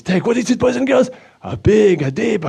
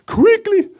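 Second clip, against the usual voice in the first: urgent; 14 semitones higher than usual. Acted. Puppet rushing off to the shops.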